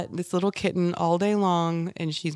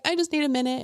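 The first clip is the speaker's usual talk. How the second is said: retold teary plea; 9 semitones higher, faster than usual. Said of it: "I was like".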